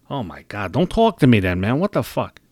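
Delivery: exasperated, heated complaint; genuinely annoyed outburst; real annoyance. Real, not acted. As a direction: vent it, fed up with them. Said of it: "I sound annoyed".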